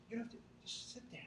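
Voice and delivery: fast, soft, near whisper; breezy soft reassurance; quick hushed aside. Real, not acted. Reassuring meditation guidance.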